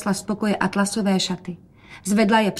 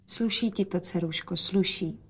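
quiet; 7 dB quieter than usual. Acted. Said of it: "hovořil otec tiše".

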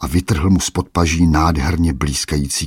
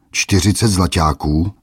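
squealing mock outrage; 3 semitones higher, 4 dB louder than usual. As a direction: scoff at the price with a shriek. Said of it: "vypískl hromotluk".

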